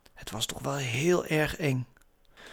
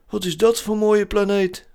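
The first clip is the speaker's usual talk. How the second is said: hoge, luide bewonderende vraag; Zeus; 7 semitones higher, 6 dB louder than usual. A narrator's reading. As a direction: vraag het vol verwondering. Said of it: "vroeg Zeus". (hoog personagestemmetje)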